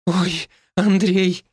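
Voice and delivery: high, slow giggling call of a husband's name; high relieved laugh; laughing cry. Acted. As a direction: let a relieved laugh burst out. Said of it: "хохотнула Марийка".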